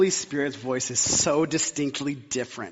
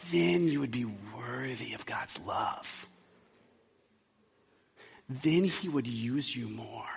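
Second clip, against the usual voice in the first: evil one's voice; slower than usual. Retold or imitated. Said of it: "the language that the evil one uses is things like this".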